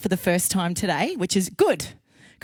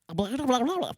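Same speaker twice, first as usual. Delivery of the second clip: dismissive blah; 4 semitones higher, 4 dB quieter than usual. Real, not acted. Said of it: "I do that once a week".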